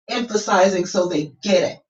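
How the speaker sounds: "emphasizing" set apart and stressed; emphatic delivery. Shown as a demonstration. Coach making sure listeners get it, emphatic delivery. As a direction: land firmly on "get it". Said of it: "kind of playing with my voice".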